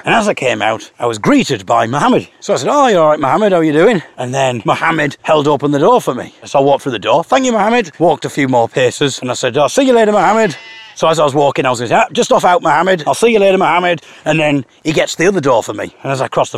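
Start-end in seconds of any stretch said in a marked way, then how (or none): 2.7-4.0 bright, louder friendly hello; loud chummy hello; cheery greeting. Retold or imitated. 7.2-8.0 high, chirpy thanks; high sing-song thank you; cheery thanks. Retold or imitated. Thanking neighbour at door. 9.6-14.0 cheery goodbye. Retold or imitated.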